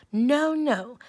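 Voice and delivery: high, loud little pig; a scared little pig shouting no. Acted. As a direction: squeal the refusal like a frightened piglet. Pig refuses wolf in story.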